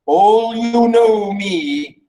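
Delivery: slow, drawn-out declamation; stately dramatic reading; lightly voiced proud king. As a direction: announce yourself as king, unhurried. Reads Oedipus introducing himself.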